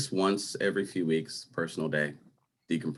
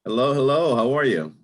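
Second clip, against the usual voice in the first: louder, higher hammed-up Jamaican Irish accent; 7 semitones higher, 7 dB louder than usual. Answering a practice phone call in a mock Jamaican Irish accent. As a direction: greet the caller in a playful put-on Jamaican Irish accent. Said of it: "I'm doing with a Jamaican Irish, a Jamaican Irish accent".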